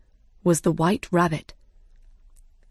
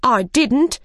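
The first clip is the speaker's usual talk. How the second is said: hasty, higher and louder denial; quick denial; 5 semitones higher, 4 dB louder than usual. A narrator's reading. March Hare rejecting the Hatter's blame, quickly. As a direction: jump in at once to deny it. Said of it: "the March Hare said quickly".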